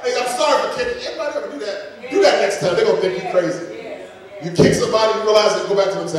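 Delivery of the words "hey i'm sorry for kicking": higher-pitched, hurried-in mock apology; acted apology. Preacher to the Lord after repenting, acted apology. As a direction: blurt a retold sorry, pitched up.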